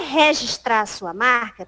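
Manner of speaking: "registrar" with an open, drawn-out first syllable, RÉ-gistrar; regional pronunciation. Retold or imitated. Telemarketer offers to register a brand, "registrar" said RÉ-gistrar. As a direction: say "registrar" as RÉ-gistrar, Piauí style. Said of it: "ela dizia que eu falava registrar".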